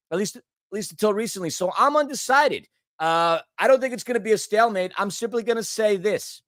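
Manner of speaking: hiccuping between words; hiccups. Real, not acted. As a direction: hiccups breaking the speech. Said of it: "Stupid hiccups".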